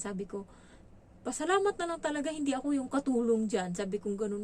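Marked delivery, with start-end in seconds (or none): 1.2-3.7 sharp retort. Retold or imitated. Retorts to employer, retold.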